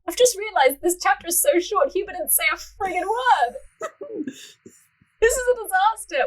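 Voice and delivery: squealing about the short chapter; excited dismay. Real, not acted. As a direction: throw up your hands over it. Realizes chapter too short.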